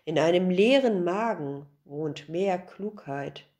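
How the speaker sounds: a sighing sage handing down wisdom; wise old master. Acted. Old master's wise closing words. (tiefe, ruhige Stimme des weisen Alten)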